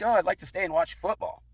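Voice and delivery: high, loud mock female voice; imitated woman. Neighbor invites herself to watch football, high mocking imitation.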